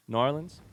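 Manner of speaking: New Orleans run together as "Norlins"; local pronunciation. Shown as a demonstration. Streamer asking chat about a nickname, local pronunciation of New Orleans. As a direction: say New Orleans with the first word squashed into it. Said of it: "is that just an accent".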